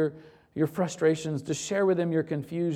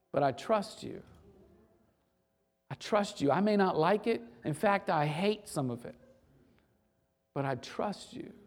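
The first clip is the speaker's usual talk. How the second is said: quiet trust; 3 dB quieter than usual. Acted. Believer lamenting to God then yielding, softly. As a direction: let it settle into quiet trust.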